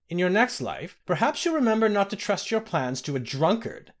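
high, gloating laughter in the words; a villain gloating over his trapped foes; mocking laugh. A narrator's reading. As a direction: sneer it out with a cruel laugh. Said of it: "laughed Lord Errol".

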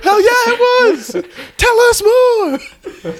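squealing with laughter; laughing. Real, not acted. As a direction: laugh through every word. Cracking up over the cupcake.

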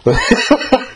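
chuckling while recalling someone's words; laughing. Real, not acted. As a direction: say it through real laughter. Amused recalling coach's word.

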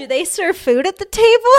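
quoting him while laughing; giggling through the question; laughing quote. Retold or imitated. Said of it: "he was like".

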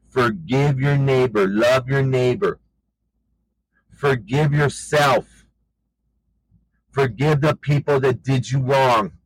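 slow, measured preacher's exhortation; preaching exhortation. Real, not acted. Preacher urging listeners to forgive, slow solemn exhortation. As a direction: press each command home slowly, drawn out.

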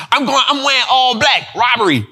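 punchline with dropped tag word; mock rapper line through laughter; playful impression of a rapper; old rap bars. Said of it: "talk like that".

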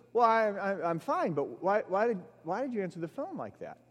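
halting, tripping over the words, then rushing; stammering roommate. Retold or imitated. Roommate on the phone, puzzled by the greeting, stammering. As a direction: stumble and repeat, then hurry the question. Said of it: "I heard some stammering".

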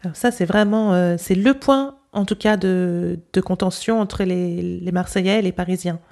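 Parisian French nasal vowels; Parisian accent. Shown as a demonstration. Host repeats the interview line, Parisian accent. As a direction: recite it as a Parisian accent demo. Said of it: "Now with my accent".

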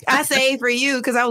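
high, giggly confession; laughing. Real, not acted. Caller admitting she saved questions for the host, laughing.

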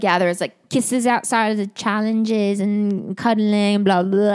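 retold line in a shaky-attempt Newcastle accent. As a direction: have a rough go at a Newcastle accent. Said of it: "I can't do her accent. It's Newcastle".

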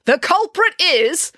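loud, high, drawn-out reveal; dramatic build-up. A narrator's reading. April keeps the crowd hanging, dramatic announcement. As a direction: build suspense, stretching each word. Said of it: "paused for dramatic effect".

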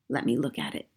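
put-on a gentle old grandmother; old woman voice. Grandmother voice, low.

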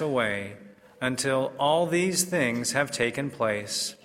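formal liturgical proclamation; measured, solemn scripture reading; Gospel reading. Acted.

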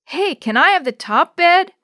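loud, high call across the room; hollering. Acted. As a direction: holler it eagerly. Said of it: "hollered Chris".

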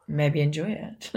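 hoarse, husky speaking voice. Real, not acted. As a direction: voice gone husky after a trip. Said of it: "I've got a little bit of a husky voice".

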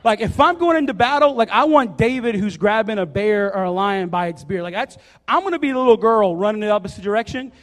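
hyped up about the bear story; excited. Real, not acted.

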